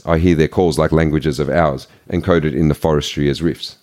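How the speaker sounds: measured recital of his own sonnet; poem reading. Acted. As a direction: read each line as verse. Reads his own sonnet aloud.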